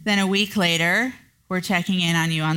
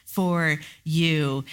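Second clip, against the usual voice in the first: passive aggressive; 5 semitones higher than usual. Retold or imitated. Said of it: "in a very passive aggressive way".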